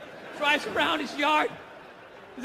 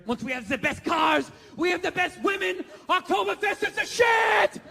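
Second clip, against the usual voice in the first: mock rally shout; 4 semitones higher, 3 dB louder than usual. Hitler pandering to crowd.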